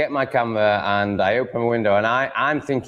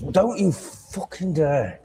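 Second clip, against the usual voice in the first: higher, slow menacing warning; angry warning; 8 semitones higher, slower than usual. Real, not acted. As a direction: stop the cat cold with a threat. Warning the cat off wire.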